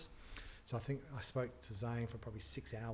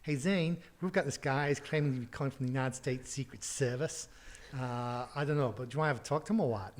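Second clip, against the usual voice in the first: receptionist calling out; 3 semitones higher, 7 dB louder than usual. Retold or imitated. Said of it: "It's like".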